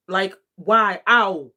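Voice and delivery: loud disbelieving questions; exasperated. Real, not acted. Arguing against the clip.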